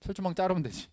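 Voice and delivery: lightly voiced Jeolla dialect retort. Practical reply to cut the barbed wire, light Jeolla dialect. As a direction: toss it off with a Jeolla lilt. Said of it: "이 전라도 사투리죠".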